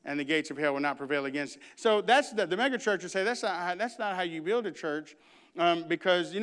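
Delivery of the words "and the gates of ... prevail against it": low, soft, assured; calm certainty, almost under the breath; a quiet, confident reply to the doubters; quiet Jesus quote. Acted. Jesus quoted after talking back.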